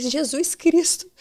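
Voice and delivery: high, slow, pleading cry; anguished cry for help, drawn out; crying out to Jesus. Retold or imitated. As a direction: call the name out high and drawn out, desperate. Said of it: "E eu comecei a clamar".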